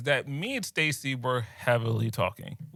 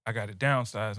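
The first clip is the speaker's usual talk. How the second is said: hushed retold plea; 5 semitones lower, 6 dB quieter than usual. Retelling girlfriend's quiet phone excuse.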